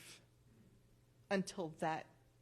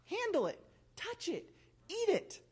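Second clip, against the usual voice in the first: voicing God; 8 semitones higher than usual. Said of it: "God tells us specifically".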